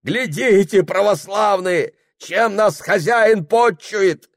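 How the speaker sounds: high, loud, slow shout to the crowd; outraged appeal. Acted. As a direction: show them the disgrace.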